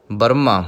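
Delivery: ਬਰਮਾ said as bər-ma, no ਹ sound; correct pronunciation. Shown as a demonstration. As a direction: say ਬਰਮਾ plainly, not ਬ੍ਰਹਮਾ. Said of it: "ਬ੍ਰਹਮਾ ਨਹੀਂ ਕਹਿਣਾ". (ਬਰਮਾ ਬਿਨਾਂ ਹਾਹੇ ਦੇ)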